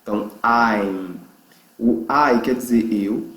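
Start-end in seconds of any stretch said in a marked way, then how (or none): 0.4-1.2 slow "I'm" ending on a held M; drawn-out "I'm" with a hummed ending; closed final M. Shown as a demonstration. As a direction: shut the lips fully to end "I'm". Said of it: "a boca tem que fechar totalmente".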